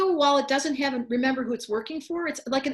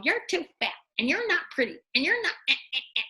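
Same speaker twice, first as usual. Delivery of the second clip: lightly mocking inner critic, pitched up; self-critical ego; 4 semitones higher than usual. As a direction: nag like an ego at the mirror. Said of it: "your egos look in the mirror and go".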